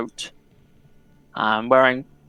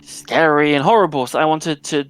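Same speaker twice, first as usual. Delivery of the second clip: flustered, a little higher, slowing in places; nervous young reporter; 3 semitones higher than usual. Acted. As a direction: babble eagerly, a shy girl explaining herself. GM voices Jenny the reporter.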